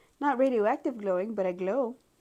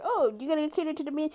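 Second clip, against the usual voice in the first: mock elder; 8 semitones higher than usual. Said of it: "I was raised to be like".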